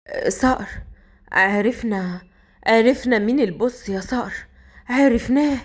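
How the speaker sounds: halting words, with pauses between them; struggling to speak. Acted. Wounded Murad struggles to tell his boss, halting and strained. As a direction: act out talking with great effort. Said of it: "بيتكلم بالعافية".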